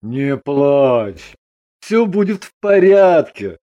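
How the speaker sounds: steady comforting husband; reassuring. A narrator's reading. Husband comforts his crying wife, reassuringly. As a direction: reassure her gently. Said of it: "заверил её Андрей".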